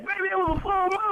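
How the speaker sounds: high pleading sweet-talk voice; smooth-talking cheater. Retold or imitated. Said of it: "brother's writing that down now".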